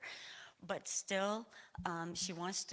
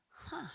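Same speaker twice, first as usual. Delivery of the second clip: soft, high "huh" that drops; puzzled huh; 8 semitones higher, 5 dB quieter than usual. Retold or imitated. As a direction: retell a quiet moment of puzzlement. Retells her puzzled reaction.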